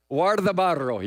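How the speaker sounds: Guardabarro with a rolled R on the rr; Spanish pronunciation. Shown as a demonstration. Pastor showing the congregation a favorite Spanish word, trilled R. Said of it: "You hear the R's rolled?".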